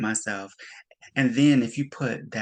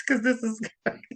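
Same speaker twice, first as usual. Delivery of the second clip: laughing disbelief; 9 semitones higher, much faster than usual. Real, not acted. Host laughing at claim.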